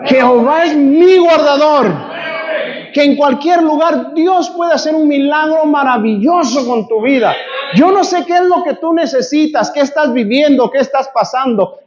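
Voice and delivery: impassioned sermon, rising to shouts; preaching. Acted. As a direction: preach it hard to the congregation. Preacher exhorting the congregation. (predicando con fervor, a gritos)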